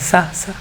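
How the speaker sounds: سا with a thin, light s; thin seen. Shown as a demonstration. Teacher shows students the letter seen, thin. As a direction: say سا very thin, not heavy. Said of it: "بالکل باریک پڑھا جاتا ہے".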